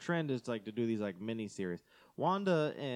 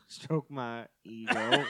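slow, drawn-out laughing echo; laughing repeat; 5 dB louder, much slower than usual. Pretend. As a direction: savor the words while laughing.

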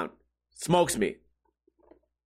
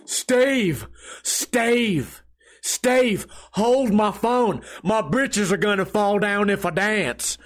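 put-on drunk old man's twangy country accent, slow and higher; 3 semitones higher, much slower than usual. Drunk old man at the bar begging Steve, country accent. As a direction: drawl it out like a tipsy Southern old-timer. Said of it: "he has a country accent".

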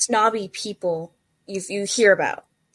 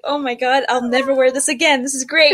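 higher, gushing exclamation; animated quote, pitched up; retold delight; 5 semitones higher, 3 dB louder than usual. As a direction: act out thrilled praise. Retells owner's delighted praise.

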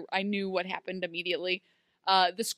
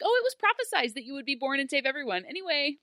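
breezy mimicry; 5 semitones higher, faster than usual. Imitates character breezily dropping heavy news.

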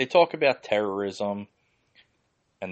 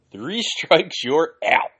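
laughing taunt; 7 semitones higher, 5 dB louder, slower than usual. Pretend. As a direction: laugh while you chant it again.

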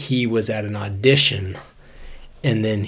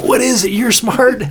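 higher-pitched mock plea to someone smarter; retold plea; 11 semitones higher, 4 dB louder than usual. Asking his girlfriend to do the math, retold plea. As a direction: toss it out high, imitating his younger self.

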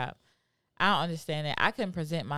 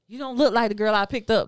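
mock outraged shout; 6 semitones higher, 8 dB louder than usual.

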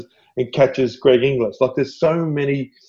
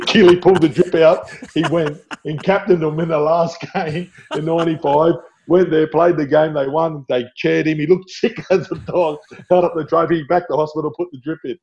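excited storytelling; 5 semitones higher than usual. Real, not acted. Telling the greatest Origin story.

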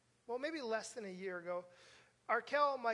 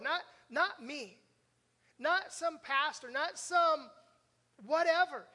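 escalating pulpit punch; rising preacher emphasis; 3 semitones higher, 6 dB louder, slower than usual. Real, not acted. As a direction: build louder on each not.

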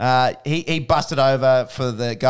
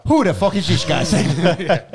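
segment title shout; 5 semitones higher, 5 dB louder than usual. Pretend.

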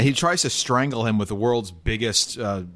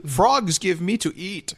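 Yoda; 6 semitones higher, slower than usual. Acted. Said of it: "or say so Yoda?".

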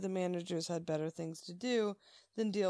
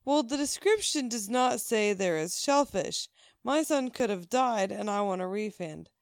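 indignant customer, punched and louder; mock-outraged complaint, easing at the end; retold anger; 5 dB louder than usual. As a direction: argue back like an affronted customer. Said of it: "and she's very angry".

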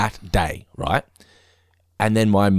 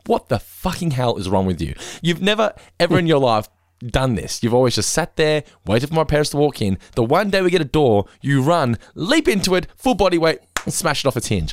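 retold exasperated rant, pitch climbing; losing it; 5 semitones higher than usual. Owner to dog that smashed the door, exasperated. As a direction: re-enact an incredulous telling-off. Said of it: "I lost my shit".

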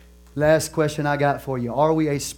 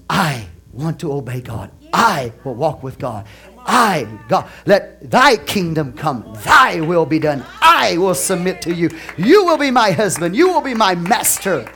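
surrendered believer; 2 semitones higher, 5 dB louder than usual. Shown as a demonstration. Preacher models how the surrendered "I" talks, earnest then fervent. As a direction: build from earnest to a fervent pledge. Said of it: "I talks like this".

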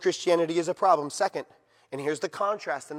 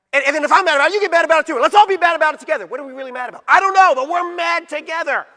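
mock mad crowd; 9 semitones higher, 12 dB louder, faster than usual. Mocking mindless shared anger.

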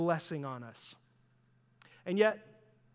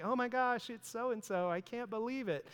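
mock starstruck fan; 4 semitones higher, 6 dB quieter than usual. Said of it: "really laying it on".

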